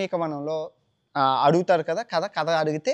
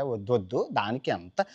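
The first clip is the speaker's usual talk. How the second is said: soft refusal; 4 semitones lower, 5 dB quieter than usual. Acted. Bhima declines Hanuman's offer.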